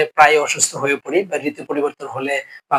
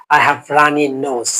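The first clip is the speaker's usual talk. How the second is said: slow model phrase; 2 semitones lower, much slower than usual. Shown as a demonstration. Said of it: "teacher models English phrase".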